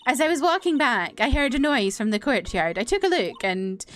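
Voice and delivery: high dramatic testimony voice; witness giving testimony. Acted. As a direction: recount the sighting with theatrical, stretched emphasis.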